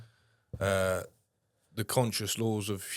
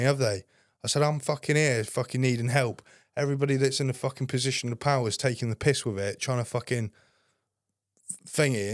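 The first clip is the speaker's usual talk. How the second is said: retold angry rant; 4 semitones higher than usual.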